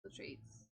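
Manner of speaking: breathy whispered echo. Shown as a demonstration. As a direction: whisper "Little treats." secretively.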